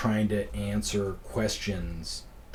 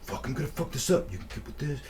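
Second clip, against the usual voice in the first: mock panic; 5 semitones higher, 3 dB quieter, faster than usual. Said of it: "He was, like, freaking out".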